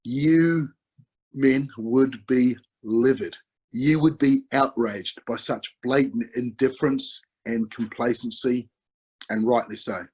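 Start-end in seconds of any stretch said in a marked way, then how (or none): 0.1-7.2 rousing emphasis. Real, not acted. Preacher rouses the men.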